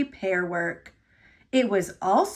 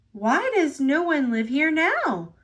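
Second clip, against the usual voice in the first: puffed; 4 semitones higher than usual. Acted. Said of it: "puffed Thomas".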